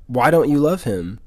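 mildly imitated innocent puzzlement; innocent, confused question. Girl asking a classmate about Jesus, lightly imitated innocence. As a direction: ask it simply, like a genuinely confused child. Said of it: "she said it very innocently".

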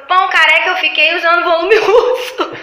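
a giggling, teasing comeback; laughing mock retort. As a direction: laugh while throwing the insult back. Client mocking, laughing.

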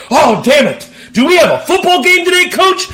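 high, quick voice of a groggy player; panicked hungover player. Retold or imitated. Player asking the coach about the game, lightly panicked. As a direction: play a player who overslept.

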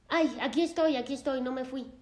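a retold patient calling back quickly; urgent reassurance. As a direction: rush to calm her down. Patient answering worried therapist.

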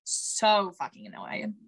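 low, drawn-out exasperation; slow, weary irritation after a sigh; real annoyance. Real, not acted. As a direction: lean on each "so", fed up. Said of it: "I am so fucking annoyed right now".

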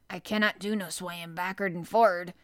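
lightly voiced gruff old gardener, admiring; old man praising the boy, a touch of dialect; old Yorkshire gardener. Ben grumbling.

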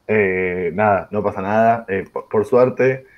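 strange, damaged-sounding voice; broken voice. Real, not acted. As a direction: talk through a worn-out voice. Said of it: "con una voz averiada".

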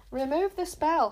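angry shout at a rival. A narrator's reading. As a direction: bark the order through anger. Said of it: "shouted Tsar".

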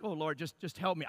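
a quiet, helpless plea to God; desperate prayer. Retold or imitated. Husband silently begging God while writing the letter, hushed plea. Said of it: "I'm just like".

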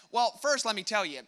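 voicing Jesus. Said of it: "This is what he says".

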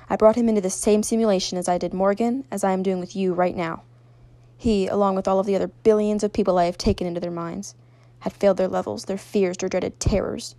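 loud, commanding controller; forceful, imposing villain voice. A narrator's reading. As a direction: project each revelation as the unseen power. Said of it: "said the deep voice".

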